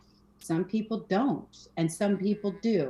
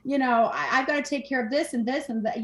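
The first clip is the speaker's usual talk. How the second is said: frazzled mom; 6 semitones higher than usual. Retold or imitated. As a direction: play the overwhelmed mom, breathless and hurried. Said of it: "as a mom, this is always like".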